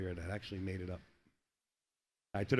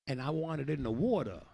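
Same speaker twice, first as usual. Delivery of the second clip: mock Italian Guido; 2 semitones higher, 4 dB louder than usual. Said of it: "Learn how to be a Guido".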